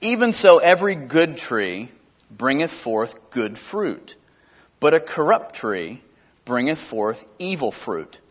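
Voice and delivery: measured preacher's scripture read. Acted. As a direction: read it out solemnly from the pulpit. Reads scripture aloud.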